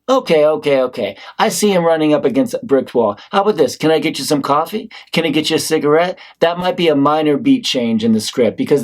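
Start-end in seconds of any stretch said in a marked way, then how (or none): 0.1-6.2 friendly detective. Acted. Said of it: "When a detective's like".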